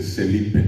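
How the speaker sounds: Celipe with an S sound for the F; child's S for F. Shown as a demonstration. Teacher showing how the child says Celipe. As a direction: say Celipe, S in place of F. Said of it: "dice Celipe".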